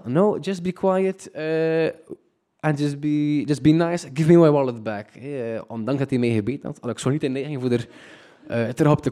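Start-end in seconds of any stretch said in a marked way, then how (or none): 0.0-5.1 calm. Retold or imitated. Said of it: "redelijk kalm".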